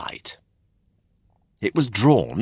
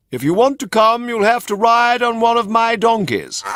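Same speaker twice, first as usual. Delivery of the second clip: smooth coachman; 6 dB louder than usual. A narrator's reading. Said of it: "said the coachman".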